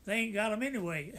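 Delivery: chuckling through the words; laughing. Real, not acted. Veteran finishing his story to the interviewer, chuckling.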